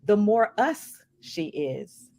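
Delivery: slow, deliberate recitation with long pauses; quote reading. Acted. Podcast host reading Alice Walker's quote on colorism, slow recitation. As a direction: let each phrase of the quote land.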